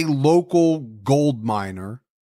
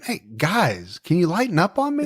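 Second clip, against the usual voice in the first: imitating the prisoner; 4 semitones higher, faster than usual. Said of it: "in prison right now saying".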